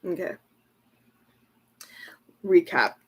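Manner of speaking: unvoiced whispered recap. Real, not acted. Recapping the cards for viewers, whispered. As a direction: breathe the word out.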